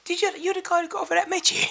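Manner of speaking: a hint of the old boss recognising him; business owner imitation. Retelling the business owner greeting him, lightly voiced. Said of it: "He went".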